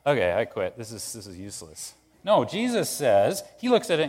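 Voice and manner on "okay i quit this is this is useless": deflated and quieter, trailing off in defeat; overwhelmed, giving up. Acted. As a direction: sigh it out like someone who wants to quit. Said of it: "overwhelmed and goes".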